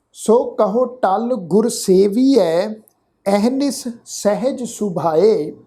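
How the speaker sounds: slow, measured Gurbani recitation; scripture recitation. Shown as a demonstration. Teacher recites scripture for the congregation to follow, slow and measured. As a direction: draw out each word, pausing between phrases.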